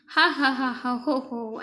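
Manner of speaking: a lightly voiced king's belly laugh, ha ha ho ho; king's mock laugh. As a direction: laugh it out like the jolly king, half-hearted. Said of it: "ऐसा वो हंसता है". (राजा की हल्की नकली हंसी)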